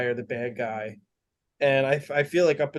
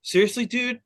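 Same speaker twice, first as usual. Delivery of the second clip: higher, exasperated boss voice; exasperated Talos; 8 semitones higher than usual. Retold or imitated. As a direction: scold the scientist in disbelief. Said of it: "Talos looks at the other Skrull and is like".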